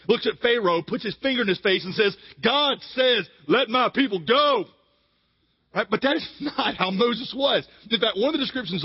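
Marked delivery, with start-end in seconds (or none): 2.4-4.7 studly hero voice. Retold or imitated. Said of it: "Val Kilmer kind of voice".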